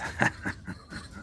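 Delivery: low-volume acted gnome chuckle; soft in-character laugh; gnome's laugh. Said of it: "the gnome looks at you and says".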